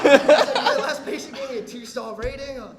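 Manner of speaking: lightly put-on Asian accent, loud; hint of a mock Asian accent; slight Asian accent. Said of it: "that was my Asian, slight Asian accent".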